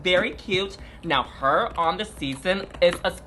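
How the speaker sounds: talking while crunching ice. Real, not acted. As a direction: speak with ice in the mouth. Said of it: "what is that noise? That's you chewing?".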